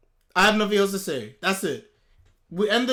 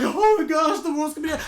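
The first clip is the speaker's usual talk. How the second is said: mock screaming; 7 semitones higher, 6 dB louder than usual. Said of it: "I wouldn't be screaming like".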